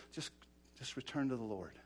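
suddenly low and soft plea; gentle appeal. Real, not acted. Preacher inviting people back, softly. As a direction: let the voice fall away into a simple invitation. Appeal drops after loud exhortation.

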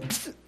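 short soft whoosh sound; quick psst. Retold or imitated. Preacher imitating Philip being snatched away, quick psst. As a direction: make a quick unvoiced vanishing sound. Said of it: "Philip went".

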